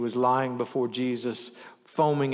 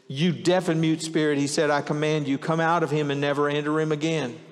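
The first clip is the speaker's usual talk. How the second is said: stern rebuke; 3 semitones higher, 4 dB louder than usual. Acted. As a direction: command the spirit to leave. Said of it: "he rebuked the impure spirit".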